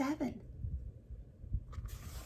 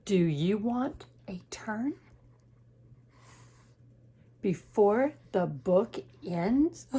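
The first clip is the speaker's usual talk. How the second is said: Piggy; slower than usual. Acted. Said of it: "Piggy says to Gerald".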